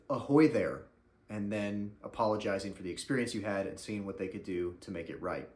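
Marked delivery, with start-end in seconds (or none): 0.1-0.8 a hint of a pirate hello; lightly hammed-up ahoy; mock cheerful pirate welcome; cheery pirate greeting. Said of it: "responding to bad reviews with".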